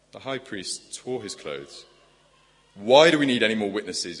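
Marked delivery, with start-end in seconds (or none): 2.8-4.2 loud indignant demand; outraged shout. Acted. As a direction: throw the question out in outrage. Preacher voices outraged high priest.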